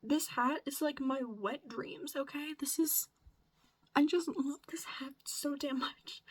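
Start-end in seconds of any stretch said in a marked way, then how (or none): 3.9-6.2 breathy, cracking voice. Real, not acted. Gushing over her favourite hat, voice cracking. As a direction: voice breaking over a beloved hat. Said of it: "my voice is just cracking like a bitch".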